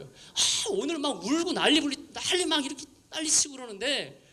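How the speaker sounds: mock annoyance at emotional hype; retold irritation. Pastor fuming about teens crying at retreat, imitated. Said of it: "그분이 막 화가 나는 게".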